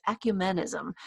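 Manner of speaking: host announces the topic, saying "ecumenism" their own uncertain way; self-doubted pronunciation. Real, not acted. Host reading point six to co-host, unsure pronunciation of "ecumenism". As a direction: say "ecumenism" as a possibly misstressed word. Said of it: "I always say that wrong".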